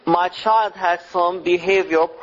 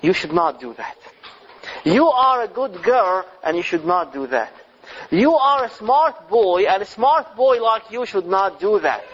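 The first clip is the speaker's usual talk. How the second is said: kind encouraging parent. Retold or imitated. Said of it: "you say".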